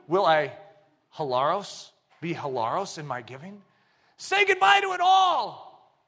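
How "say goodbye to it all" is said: booming God's command. Acted. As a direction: call down from heaven.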